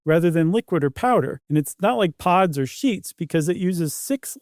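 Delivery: scripted commercial delivery with lively emphasis; podcast ad read. Acted. Co-host backs up the laundry product pitch, polished ad read. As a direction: sell it smoothly, leaning on the key claims. Reads a sponsor ad.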